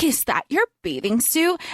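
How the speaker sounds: imitated deadpan question. Quoting Wednesday's jab at Amanda, deadpan. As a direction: ask it evenly, mimicking a dry put-down. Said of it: "she's so deadpan with it".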